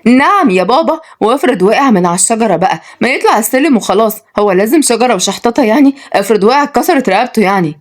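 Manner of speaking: high-pitched exasperated objection; indignant, fussed retort; annoyed. Acted. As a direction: protest irritably, like a put-out young woman. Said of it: "ردت وعد بضيق".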